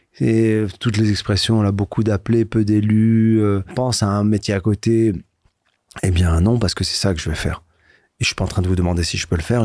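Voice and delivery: normal talking voice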